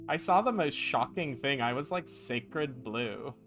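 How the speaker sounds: put-on French Valley Girl. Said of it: "my French Valley Girl impression".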